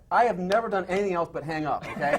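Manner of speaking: mock outrage building to a loud, high finish; exasperated comic rant. Mock rant at phone instructions.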